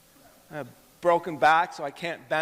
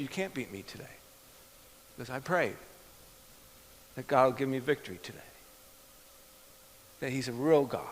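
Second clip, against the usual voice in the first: calm witness; 5 dB quieter than usual. Retold or imitated. Calm witness to mocking golfer.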